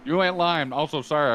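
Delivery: talking through a mouthful of pizza; chewing while talking, words round food; mouth full. Real, not acted. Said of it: "I got pizza in my mouth".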